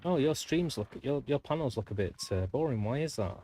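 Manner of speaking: starts high and sugary, settling back down; lightly voiced chirpy seller; mock spammer. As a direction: imitate a pushy salesperson feigning concern. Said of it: "when they come on and go".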